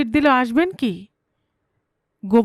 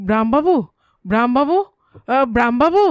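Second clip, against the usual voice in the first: rising, louder calls through a shut door; calling out loudly; 4 dB louder than usual. Acted. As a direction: shout the name to wake a sleeper. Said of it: "আর্তনাদ ধাক্কা মারছিল সদরে".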